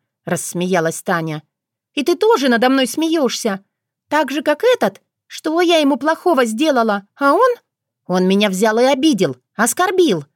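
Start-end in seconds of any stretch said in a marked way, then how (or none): 1.9-10.2 rising indignant complaint, a bit higher; indignant outburst. A narrator's reading. Younger sister flaring up at her older sister, indignant. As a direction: flare up, hurt and offended. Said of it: "взвилась возмущённая Вика".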